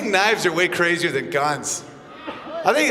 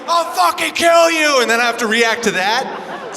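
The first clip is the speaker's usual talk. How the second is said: louder, building insistence; 4 semitones higher, 4 dB louder than usual. Retold or imitated. Comic defending himself to hecklers, louder insistence. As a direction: lean in hard to make the point. Comic explains to crowd loudly.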